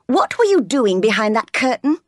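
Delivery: a touch of a sharp interrogation; bullying young master. Acted. John questioning Jane about the curtain, mildly bullying.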